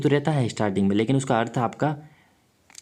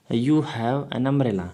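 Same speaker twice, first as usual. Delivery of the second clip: very slow, every word spaced out; slow dictation; much slower than usual. Shown as a demonstration. Teacher dictating the example to students, drawn out slowly. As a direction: spell the sentence out for the class word by word. Reading the example sentence aloud.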